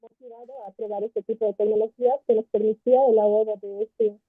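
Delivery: muffled, as if through a hand. Real, not acted. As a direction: voice dulled by a covered mic. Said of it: "it's very muffled".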